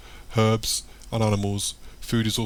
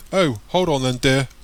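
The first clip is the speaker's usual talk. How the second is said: put-on higher, louder elderly woman; old voice; 4 semitones higher, 6 dB louder than usual. A narrator's reading. Old Missus Tom's unlocking the door, calling back. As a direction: call back as an old lady. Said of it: "an old voice says from behind the door".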